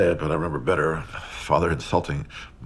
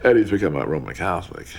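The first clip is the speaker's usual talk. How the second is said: imitating father's raised-voice announcement; retold shout; 4 semitones higher, 8 dB louder, faster than usual. Father calling out news of a conversion to mother, shouting. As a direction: call it out, higher and louder, as father did. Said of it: "when Father shouted out to her".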